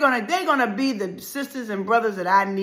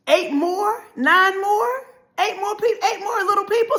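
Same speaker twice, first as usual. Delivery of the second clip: incredulous laughing; 7 semitones higher than usual. Retold or imitated. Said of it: "you're thinking, wondering".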